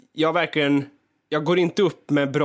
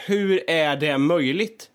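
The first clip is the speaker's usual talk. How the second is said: slow, drawn-out "hur är det möjligt?", rising at the end; slow self-talk; much slower than usual. Retold or imitated. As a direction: stretch "hur är det möjligt?" out slowly in disbelief. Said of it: "jag säger så här". (långsamt, uppgivet "hur är det möjligt?")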